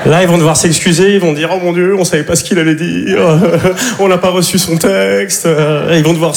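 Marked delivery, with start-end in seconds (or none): 1.5-5.5 mock panicked apology. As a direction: plead innocence in an exaggerated put-on voice. Imite les excuses de la radio. (excuses affolées, surjouées)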